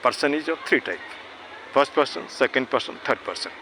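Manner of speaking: slow, deliberate teaching line; slow dictation. Shown as a demonstration. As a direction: spell the rule out word by word. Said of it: "person क्या होता है?". (धीरे-धीरे समझाना)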